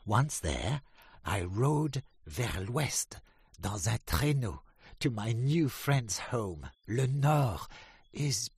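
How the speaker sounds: high, loud proud duck voice; Drake the duck. A narrator's reading. Drake tells the ducks of France, high and loud. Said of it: "said Drake".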